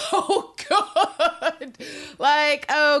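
high, slow, laughing delight; real laughter. Real, not acted. Laughing while praising the actor's ad-lib. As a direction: let the laugh stretch the words.

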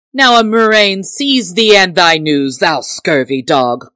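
indignant curse. A narrator's reading. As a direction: curse him loudly, slowing on the insult. Tinker curses the teasing Robin.

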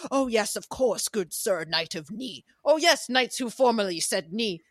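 lightly voiced regal king; a hint of a solemn, polite king; King Arthur, regal. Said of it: "And King Arthur is like".

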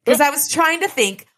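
laughing as she talks; giggly and high; giggling. Real, not acted. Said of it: "That made me giggle out loud".

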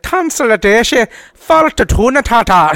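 slow fake Gaelic babble; mock Gaelic gibberish. The girlfriend's pretend pillow talk in mock Gaelic. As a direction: drawl out made-up Gaelic words. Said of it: "talk Gaelic".

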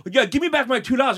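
high, loudening mock Irish rant; horrible Irish accent. Drunk regular demanding two dollars back, horrible Irish accent. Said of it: "my horrible Irish accent".

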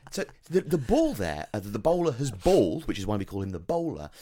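high, over-explaining sports pundit; patronising commentator. Pretend.

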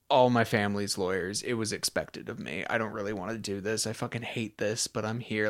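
mildly resigned, subdued recital; mock reluctant student. Imagined law student explaining why they enrolled, mildly resigned. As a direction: lightly voice someone going through the motions.

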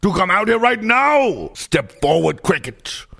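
lightly voiced sassy diva, delighted with nature; a hint of a camp diva loving the outdoors; a singer. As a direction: purr it like a fierce diva. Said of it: "it is me, the singer".

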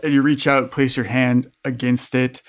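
measured game master narration; scene-setting narration. A narrator's reading. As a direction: lay out the scene deliberately.

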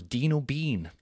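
deadpan repeat of DINO BEAN, as if noting it down; mock compere writing down "Dino Bean"; falling "Dino Bean". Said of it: "say his name twice with two different inflections".

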